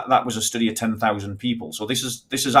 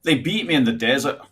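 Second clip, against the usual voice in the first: higher-pitched put-on Scottish accent; 4 semitones higher than usual. Shown as a demonstration. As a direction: say it like a Scot. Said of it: "A Scottish accent would be".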